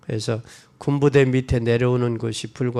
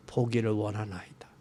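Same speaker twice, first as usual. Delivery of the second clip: whispered plea; 5 semitones lower, 11 dB quieter than usual. Retold or imitated. 소경이 예수께 조용히 청함.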